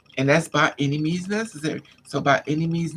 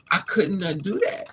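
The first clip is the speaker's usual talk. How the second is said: crying out; 6 semitones higher, 3 dB louder, slower than usual. Real, not acted. Telling her story, she breaks into a high cry. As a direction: voice breaking into a wail. Emotional outburst mid story.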